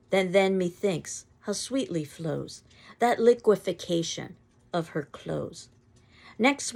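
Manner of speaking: put-on slow, lilting old verse; poem recitation. Shown as a demonstration. Teacher recites Herrick's poem to the class, lilting. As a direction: savour each line of the verse. Recites Upon Julia's Clothes.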